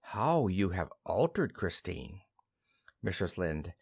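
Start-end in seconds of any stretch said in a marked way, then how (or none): 0.0-2.2 gentle. Acted. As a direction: say it tenderly to an old friend. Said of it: "In a gentle voice".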